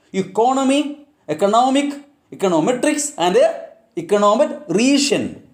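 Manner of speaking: "Economy, economic, econometrics, econometrician" with stress moving later along the series; shifting word stress. Shown as a demonstration. Teacher reading suffix examples, shifting word stress. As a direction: punch a later syllable as "Economy" grows to "econometrician". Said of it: "will really affect the stress".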